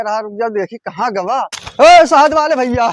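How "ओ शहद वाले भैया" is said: louder, raised hailing voice; calling out urgently. Acted. Son hailing the honey seller to stop, urgent call. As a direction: call after someone to make them stop.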